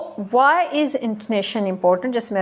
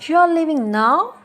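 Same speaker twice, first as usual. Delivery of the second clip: slow, high "You are leaving now", swooping up on "now"; surprised question; 6 semitones higher, 3 dB louder, much slower than usual. Shown as a demonstration. Teacher showing surprise at someone leaving, rising intonation. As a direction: ask in disbelief, dip then soar on "now". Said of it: "surprise होके कि अब तुम जा रहे हो".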